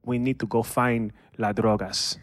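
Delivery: Narcos drug lord. Pretend. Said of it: "You do Narcos and I'll do British".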